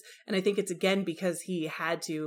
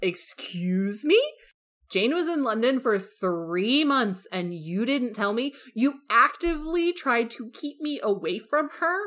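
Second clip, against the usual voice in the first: mock outrage; 4 semitones higher than usual. Bingley outraged at Darcy.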